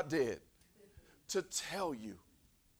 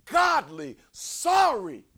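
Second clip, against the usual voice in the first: ordinary delivery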